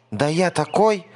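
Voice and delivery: high, piping mouse squeak; squeaky mouse. A narrator's reading. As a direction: puff up in a tiny squeak. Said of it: "мышонок пропищал".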